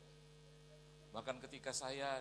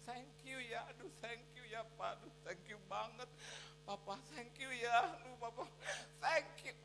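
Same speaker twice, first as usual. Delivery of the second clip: gushing wife; 10 semitones higher than usual. Retold or imitated. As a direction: imitate a wife overcome with gratitude. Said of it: "dia ciumi saya habis".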